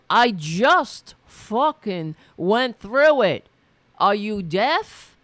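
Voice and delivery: slow, loud and high, every word spelled out in irritation; exasperated retort. Retold or imitated. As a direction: snap back at him slowly and loudly, fed up. Retold shouting match, exasperated.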